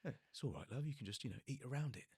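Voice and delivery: easy Cockney "it's all right, love"; a hint of a relaxed Cockney geezer; lightly voiced Cockney mate. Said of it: "Cockney geezer".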